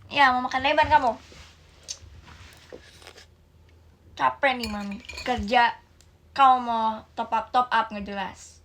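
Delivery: put-on loud, furious mother laying into her child; angry scolding mother. Mother shouting at child who took money for game top-ups, furious. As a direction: yell at the kid who spent your money.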